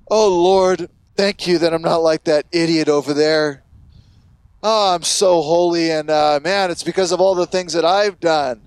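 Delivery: condescending, self-righteous. Acted. Pharisee thanking God he's not like others, condescending and self-righteous. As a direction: lay on a smug, self-righteous prayer. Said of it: "Condescending, self-righteous".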